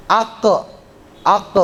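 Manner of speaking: Ak with a bouncing qaf; qalqalah bounce. Shown as a demonstration. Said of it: "dia qalqalah". (ak dengan pantulan qalqalah)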